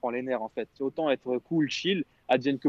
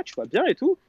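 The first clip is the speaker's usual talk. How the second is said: high, loud imitation of the girlfriend's casual voice; a mock-sweet girlfriend voice, as if nothing happened; 11 semitones higher, 5 dB louder than usual. Imitating the ex asking how he is, mock sweet and high. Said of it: "elle me parle dans sa voix".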